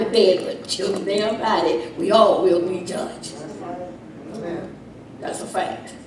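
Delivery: ordinary talk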